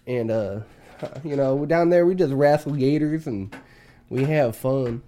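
lightly put-on Southern country voice; southern accent. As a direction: mildly play up a Southern accent. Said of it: "I gotta talk country right now?".

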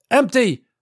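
high, loud one-word call; Paul calling for a fresh magazine, shouting. A narrator's reading. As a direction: bark it out over the gunfire. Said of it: "Paul shouted".

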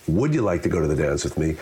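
"Would" leaned on, the rest running on quickly; stress on WOULD. Shown as a demonstration. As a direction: hit "Would", then move quickly through the question. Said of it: "The emphasis on each word".

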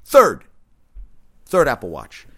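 disbelieving loud shout; exasperated shout. Real, not acted. Fuming over third broken watch.

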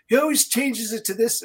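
lightly voiced old man; a hint of a creaky old man. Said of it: "whenever it does the old man voice".

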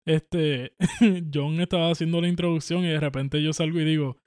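usual speaking voice

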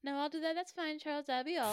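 posh lady voice. Acted. Plays posh madam.

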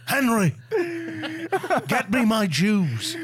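Nixon impression.

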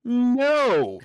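just say no and walk off; flat defiant no. Retold or imitated. Refusing to prove a point, blunt high no. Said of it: "And I go".

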